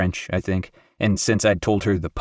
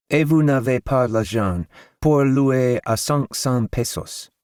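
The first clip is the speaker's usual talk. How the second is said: haggling landlady; 5 semitones higher, slower than usual. A narrator's reading.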